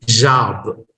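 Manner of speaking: American "job" with an open vowel; American pronunciation. Shown as a demonstration. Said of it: "are different pronunciations of the same word".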